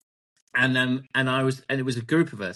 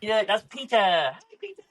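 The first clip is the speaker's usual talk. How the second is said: higher, lifted voice for a dog; pet-greeting voice; 7 semitones higher than usual. Real, not acted. Greeting Peter the dog, higher. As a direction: say hello to the dog, pitched up.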